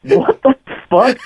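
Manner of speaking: high, drawn-out mock disbelief; retold incredulity. Teller hearing who slept with Eaglehead, retold incredulity. Teller reacts to absurd revelation.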